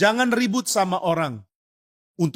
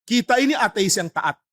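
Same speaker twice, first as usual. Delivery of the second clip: mock-indignant son, higher and pressing; angry son; 4 semitones higher than usual. Atheist son scolds his frightened father, mock-angry and higher. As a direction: scold the wavering father with zeal. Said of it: "Anaknya marah".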